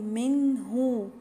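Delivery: منه with a crisp, clear noon. Shown as a demonstration. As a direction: pronounce the noon in منه plainly. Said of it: "هظهر النون الساكنة". (إظهار النون في منه)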